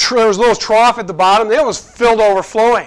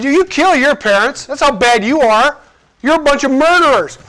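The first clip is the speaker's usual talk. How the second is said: in-your-face accusation; 5 semitones higher than usual. Retold or imitated. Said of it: "he's just in your face".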